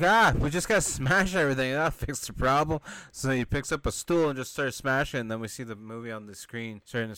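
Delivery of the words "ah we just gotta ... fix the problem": brash. Retold or imitated. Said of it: "he's like".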